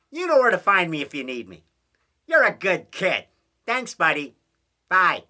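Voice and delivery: lightly imitating Conrad on the phone; Conrad impression. Conrad double calling his buddy George, light imitation. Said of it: "that's how he talks".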